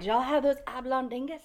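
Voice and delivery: Southern mother-in-law. Retold or imitated. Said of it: "she was like".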